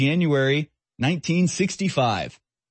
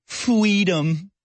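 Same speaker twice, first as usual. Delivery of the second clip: Freedom said much higher with a rising lilt; mock child voice; 8 semitones higher than usual. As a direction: raise the pitch on Freedom like a cute little kid. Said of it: "And I just look at her and I said".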